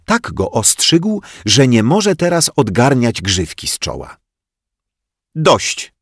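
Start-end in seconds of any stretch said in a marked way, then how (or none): 5.3-5.9 higher, louder sharp command; teacher stopping the quarrel; firm stop. Acted. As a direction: cut them off firmly. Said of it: "powiedziała pani Miłka".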